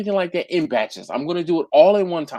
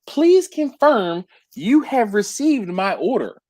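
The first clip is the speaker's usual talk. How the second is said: stiff formal request; 5 semitones higher, slower than usual. Retold or imitated. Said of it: "And she said".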